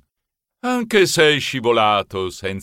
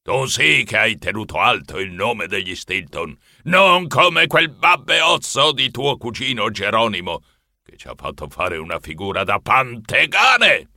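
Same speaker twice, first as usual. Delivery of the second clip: congratulating, then a touch of scorn; hint of a hearty old grandfather; lightly voiced proud grandfather. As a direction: praise heartily, then scold the absent cousin.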